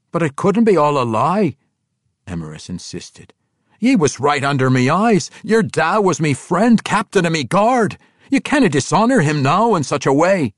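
a dwarf king refusing to believe, high and loud. Acted. King Emrys recalling young Arar, stunned dwarf voice. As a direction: push back in a rough dwarf brogue.

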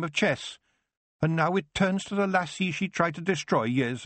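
put-on a wee Scots elder cautioning the girl; Scottish Feegle Kelder. The Kelder speaks, Scots dialect.

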